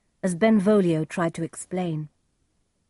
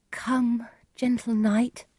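higher, gentle figure voice; young Juliet, longing; 6 semitones higher, slower than usual. Acted.

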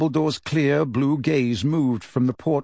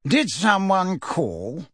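feigned waking; 4 semitones higher, much slower than usual. Acted. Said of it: "gave a theatrical jerk".

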